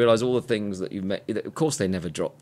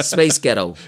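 American accent; slower than usual. Shown as a demonstration. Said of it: "Do it again".

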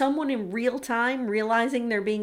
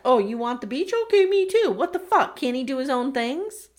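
mock exasperation; 3 semitones higher, 4 dB louder than usual. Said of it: "He's yesing me to death".

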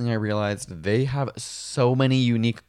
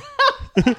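high cooing dove call; mourning dove call; 5 dB louder than usual. Pretend. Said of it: "Do that again".

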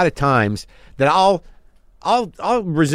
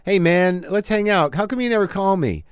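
higher, eager plea for friendship; needy pleading; 5 semitones higher than usual. Retold or imitated. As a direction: beg to be liked. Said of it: "what I'm saying is".

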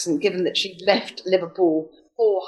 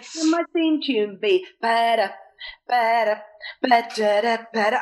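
Blind Date echo; 2 semitones higher than usual. Pretend. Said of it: "that's Blind Date".

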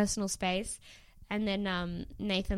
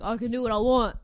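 impression. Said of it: "That's a spot on impression of him".

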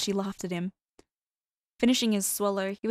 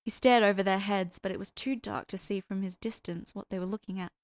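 usual speaking voice

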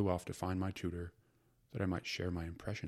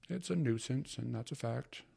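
fretting mother; 5 semitones higher than usual. Acted. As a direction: fuss like a harried housewife. Mother's voice in story.

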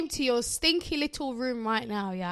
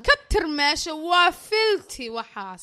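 put-on Somali mum accent. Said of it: "her accent".

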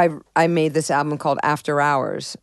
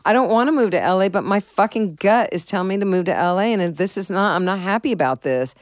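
retold angry outburst; 5 semitones higher than usual. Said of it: "Why are you so angry about it?".

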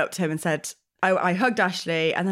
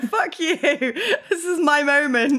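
higher, drawn-out indignant protest through laughter; mock indignation; 6 semitones higher, slower than usual. Imagined reply to the friend hijacking her moment, mock indignant. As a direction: laughingly play the affronted friend.

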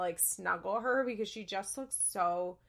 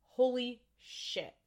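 awed disbelief; 4 semitones higher, slower than usual. Retold or imitated. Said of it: "I was like".

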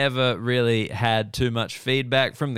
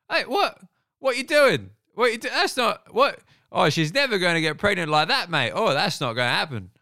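a British heckler shouting up at the stage, pitched way up; British heckler impression; 7 semitones higher than usual. Comic telling the crowd how British audiences heckle, mock British voice. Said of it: "But the British are like".

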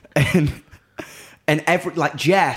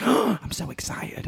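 mock excited gasp; 6 semitones higher, slower than usual.

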